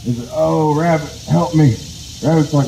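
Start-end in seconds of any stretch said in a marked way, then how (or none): 0.3-1.8 hurting plea. Acted. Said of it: "he's hurting".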